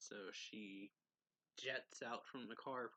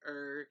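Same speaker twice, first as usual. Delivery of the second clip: short, loud car-swerve noise; loud "er" sound effect; imitated tire screech; 3 semitones higher, 6 dB louder than usual. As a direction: mimic a car jerking round a corner. Imitates car yanked round corner.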